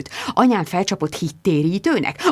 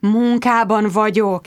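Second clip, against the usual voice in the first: pleading; slower than usual. Acted.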